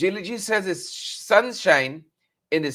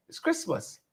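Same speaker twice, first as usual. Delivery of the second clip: high squeal; 9 semitones higher, 7 dB quieter than usual. Acted. Excited aside about Christmas.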